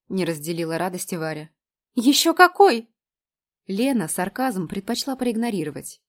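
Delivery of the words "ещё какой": gushing. A narrator's reading. Lena gushes back.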